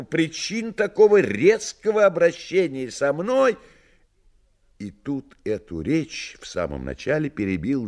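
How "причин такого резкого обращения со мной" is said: high, lively talking cat; a cheeky cat speaking from above. Acted. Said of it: "говорил он сверху".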